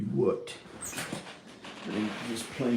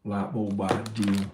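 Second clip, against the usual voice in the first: slower country twang; second country accent; slower than usual. Shown as a demonstration. Vlogger voicing another kid he met, slow country accent. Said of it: "those are two different country accents when I said light bulb idea".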